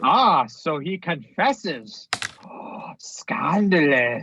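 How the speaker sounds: slow gasp, whispered scandal; mock scandalized. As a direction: gasp like hearing gossip.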